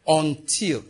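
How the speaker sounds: "until" set apart on its own, pitch falling; single out "until" as the key word; stress on until. Shown as a demonstration. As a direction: land firmly on "until" by itself. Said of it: "I want to emphasize the word until".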